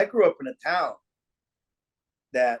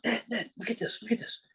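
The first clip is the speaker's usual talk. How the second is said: put-on excited young guy; 7 semitones higher, 9 dB quieter than usual. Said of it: "And he goes".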